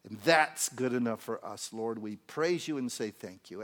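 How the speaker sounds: fervent, emphatic pastoral prayer; heartfelt congregational prayer; earnest public prayer. Real, not acted. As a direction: pray aloud with conviction, phrase by phrase. Leads closing prayer.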